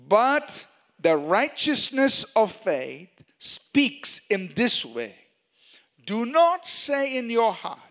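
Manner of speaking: scripture reading. Acted. Preacher leads the congregation through Romans ten, deliberate scripture reading. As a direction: read it out deliberately, phrase by phrase.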